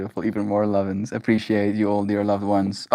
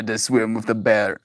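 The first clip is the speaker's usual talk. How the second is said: put-on Russian accent. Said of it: "Last part sounded Russian".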